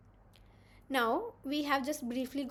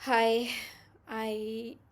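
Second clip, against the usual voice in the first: sounding low; 3 semitones lower, much slower than usual. Shown as a demonstration. Teacher demonstrating a voice that sounds down to students, subdued and slow. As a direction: show the class how someone sounds when they feel low. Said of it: "I sound something like".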